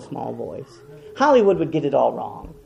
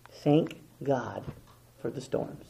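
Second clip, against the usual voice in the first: soft whisper; 3 semitones lower, 11 dB quieter, slower than usual. Real, not acted. Quiet sermon close.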